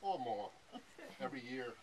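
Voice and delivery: loud laughing vow reading; can barely read through the laughter; shouting through laughter at the joke; laughing loudly. Real, not acted.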